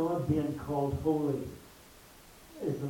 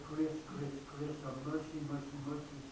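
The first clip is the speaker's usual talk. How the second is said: plain; 6 dB quieter than usual. Shown as a demonstration. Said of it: "didn't cry out".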